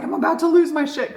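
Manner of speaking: loud, high burst of frustration; on the edge of losing it; half-shouted retold fury; retold rage. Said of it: "'cause I used to really rage".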